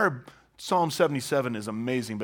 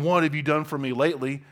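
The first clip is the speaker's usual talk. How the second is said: sarcastic; 4 dB louder than usual. Retold or imitated. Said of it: "with sarcasm".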